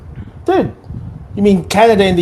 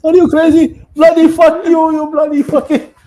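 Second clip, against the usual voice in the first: very high, louder mock yelling with South Asian accent; 12 semitones higher, 3 dB louder than usual. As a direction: yell insults in a hammed-up South Asian accent. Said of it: "you know the meme".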